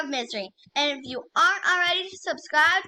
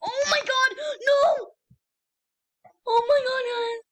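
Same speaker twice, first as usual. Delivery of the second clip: real shout; 10 semitones higher than usual. Real, not acted. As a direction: yell it as you fall. Falls after nearly winning.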